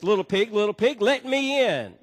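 a playful wolf coaxing at the door; big bad wolf. Wolf at the stick house door, lightly voiced and playful.

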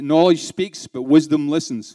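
slow and deliberate, stressing knowledge and wisdom; slow, weighty quote. Shown as a demonstration. Trainer gives managers a rock guitarist's quote, slow and weighty. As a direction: lay each word down slowly, like a proverb. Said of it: "Do you understand?".

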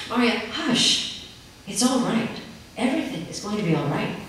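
put-on calm a crying child; soothing mother.

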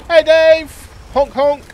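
loud honking clown call; silly clown. Pretend. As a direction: honk like a goofy clown. Honking at a fellow player.

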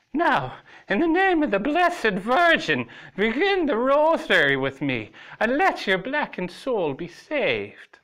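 high, loud zealous order; fierce command. A narrator's reading. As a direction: thunder it like a fanatic. Lily forces him to pray.

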